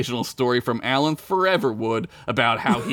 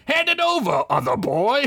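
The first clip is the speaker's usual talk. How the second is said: haughty elf; 10 semitones higher than usual. Acted. Master elf addressing servant.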